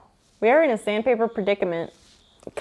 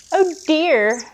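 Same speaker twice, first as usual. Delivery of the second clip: mock alarm; 5 semitones higher than usual.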